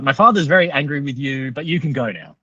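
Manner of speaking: hint of a boy passing on a message; young interpreter. Son relays angry father's verdict to driver, lightly imitated kid. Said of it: "but he's like".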